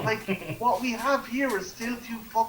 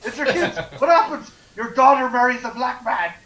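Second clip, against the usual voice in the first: urgent mad-scientist Doc, louder; a hammed-up Doc Brown warning Marty, pitched up and loud; frantic Doc; 3 semitones higher, 5 dB louder than usual. Warning Marty about his future kids, hammed-up louder Doc. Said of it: "And I'm like".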